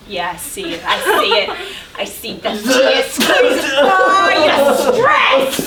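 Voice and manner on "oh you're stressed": loud laughing gotcha; triumphant accusation. Acted. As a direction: catch him out, laughing.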